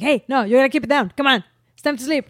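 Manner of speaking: quick, mildly firm telling-off; lightly voiced no-nonsense father; imitating stern dad. Dad orders baby to bed, mock firm. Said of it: "Rob is like".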